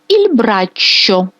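Il braccio spelled out slowly; careful teacher demo of Il braccio; very slow, clear Italian word; slow Italian model. Shown as a demonstration. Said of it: "Рука".

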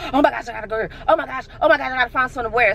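imitated rush of worried thoughts; mock anxiety. Vlogger voicing her schedule worries, mildly anxious. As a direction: fret lightly, as if listing chores in a fluster. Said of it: "I would get high grade anxiety".

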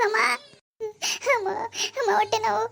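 high, strained voice crying out in pain; moaning in pain, pleading with her mother-in-law. Acted. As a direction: beg for help through stomach cramps. Acted stomach pain.

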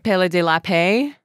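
a second try at a French accent, Pelle de la Paix ending in pay; French-accented Pelle de la Paix with a rising end. Shown as a demonstration. Host retries the artist's name in a French accent. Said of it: "let me try this accent".

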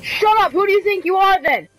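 exasperated telling-off with falling endings; mad scolding. Real, not acted. Telling a noisy teammate to shut up, mad and exasperated. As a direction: scold them, drawing out the last words. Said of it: "Gosh, I'm mad".

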